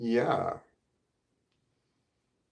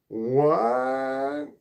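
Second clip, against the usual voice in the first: shocked what; 2 semitones higher, 5 dB louder than usual. Real, not acted. Startled by the sandwich shooting news.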